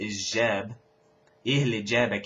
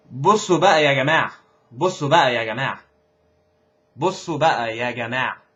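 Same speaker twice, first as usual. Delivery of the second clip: calling out; 2 semitones higher, 6 dB louder, much faster than usual. Shown as a demonstration. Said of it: "trying to get their attention".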